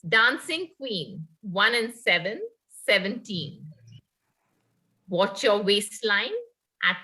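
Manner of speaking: sing-song number calling; bingo caller. Acted. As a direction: call out tambola numbers. Resumes housie calling.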